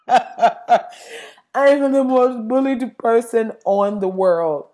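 slow, mocking foreign-accent quote; Melania's accent. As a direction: imitate her broken English, word by word. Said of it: "They didn't do nothing to be like".

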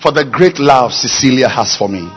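tender prayer. Shown as a demonstration.

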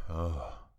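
another fed-up, breathed-out "oh"; acted exasperated sigh. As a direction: sigh as if resentment is piling up. Acts out growing frustration.

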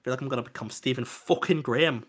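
put-on Scouse accent; mock Liverpool accent. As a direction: slip into a comic Scouse accent. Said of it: "My fucking Scouse accent".

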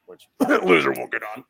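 normal talking voice

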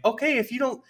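high-pitched, mock-outraged comeback; exasperated retort. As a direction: throw it back at him, hammed up. Retold angry retort to salesman.

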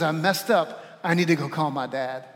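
low, calm admission; trusting confession. Acted. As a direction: own up calmly, sure of a father's grace. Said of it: "that's relating to God out of grace".

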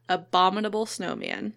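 careful, measured "Abominable snowman"; slightly slowed, carefully sounded out. Shown as a demonstration. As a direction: say the tricky name deliberately so it doesn't trip you. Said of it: "I have to say it very slow".

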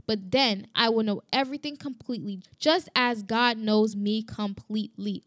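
unhurried recitation with careful phrasing; scripture reading. Real, not acted. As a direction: read the verse out deliberately. Reads scripture aloud.

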